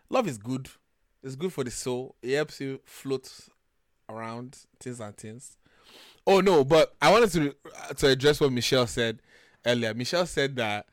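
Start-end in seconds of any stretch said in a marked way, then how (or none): 0.1-5.6 soft, trailing musing about love; soothing. Real, not acted. Calming friends about a bit of love, soothing. Placating friends after mock anger.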